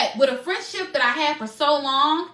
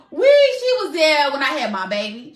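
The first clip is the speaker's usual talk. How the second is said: crying; 2 semitones higher, 5 dB louder than usual. Real, not acted. Telling viewers her lost best friend was there at the birth, crying. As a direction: voice breaking, a little louder.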